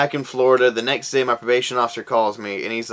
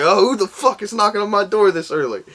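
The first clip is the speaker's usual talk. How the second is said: annoyed sleepy; 8 semitones higher than usual. Retold or imitated. Woken by knock, retold.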